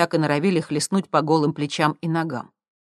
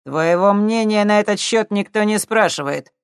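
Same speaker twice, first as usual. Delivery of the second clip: rougher demand; 6 semitones higher, 8 dB louder than usual. A narrator's reading. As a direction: bark the order. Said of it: "уже грубее потребовал здоровяк". (грубо, громче)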